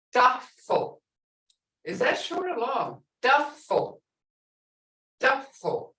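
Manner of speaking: "duffel" with a short "uh" in the first syllable; short vowel. Shown as a demonstration. Teacher testing students by ear, short-vowel word. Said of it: "That sounds short to me".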